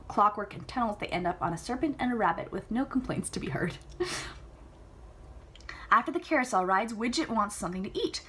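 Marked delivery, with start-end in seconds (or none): 3.8-4.4 tiny unvoiced snicker; hushed amused giggle; whispered laugh. Real, not acted.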